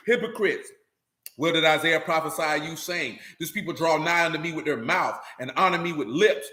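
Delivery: low, even scripture recital; scripture reading. A narrator's reading. Reads scripture aloud.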